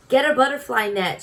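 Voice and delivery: high, loud urgent shout; shouted order. A narrator's reading. Dentist shouting to Stuart mid-chase. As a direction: bark the order across the room. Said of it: "shouted the doctor".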